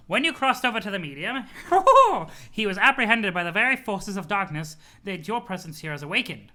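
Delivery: put-on sweet old grandma voice; chirpy granny, doting on her grandson; Nana voice. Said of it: "You love my Nana voice?".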